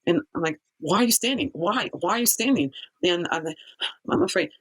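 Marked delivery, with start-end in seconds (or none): 0.8-2.7 higher pitched, indignant demand; retold demand. Girl demanding why the kids just stand there, indignant. 4.1-4.5 put-on much higher, small scared kid's voice; imitated fear. A kid answering the angry girl, squeaky and afraid. Kids answer why they stand.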